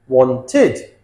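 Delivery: "wanted" split as won-tid; added syllable. Shown as a demonstration. Teacher counts syllables, "wanted" broken into two. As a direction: sound out both syllables of "wanted". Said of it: "this adds a syllable".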